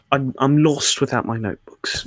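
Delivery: botched attempt at a Scottish-leaning British accent; bad Ben Cardall accent. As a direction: try his British accent and miss. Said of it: "that was a horrible accent of his".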